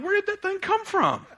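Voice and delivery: high, laughing disbelief; laughing surprise. Retold or imitated. Preacher retelling finding a tree under his deck, laughing surprise. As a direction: marvel at it through a laugh.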